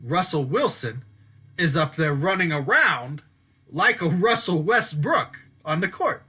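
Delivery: measured, with pauses between phrases; slow down to get the name right; careful, phrase-by-phrase delivery. Real, not acted. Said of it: "let me talk slower".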